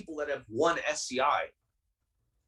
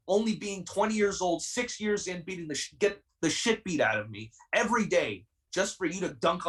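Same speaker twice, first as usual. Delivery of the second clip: heated; 3 semitones higher than usual. Real, not acted. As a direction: pour out the frustration, pitch raised throughout. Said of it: "I'm sorry I'm heated".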